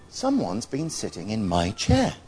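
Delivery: understated, gentle Mother Bear; a touch of graceful gentleness, lifting at the end; mild gentle voice. Acted. Mother Bear finds her chair used, mildly gentle. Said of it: "said in her graceful, gentle voice".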